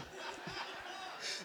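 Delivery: soft, breath-only mock sniffles; stifled crying. Shown as a demonstration. Boy must go home with dad, mock stifled sobs. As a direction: act out choking back sobs. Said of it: "so let me just stop crying".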